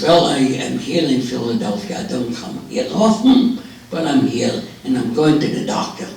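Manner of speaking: put-on old man's Yiddish-tinged Jewish accent. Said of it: "drop the Jewish accent".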